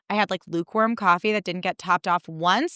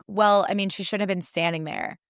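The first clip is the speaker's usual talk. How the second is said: dismissive host. Retold or imitated. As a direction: shrug it off like it's not your problem. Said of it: "the audacity of that host".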